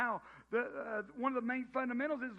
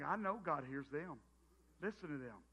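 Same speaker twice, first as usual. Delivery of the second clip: low, soft murmur of awe; hushed admiration; admiring murmur; 9 semitones lower, 8 dB quieter than usual. Retold or imitated. Believer admiring a fluent pray-er, soft hushed. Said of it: "You think".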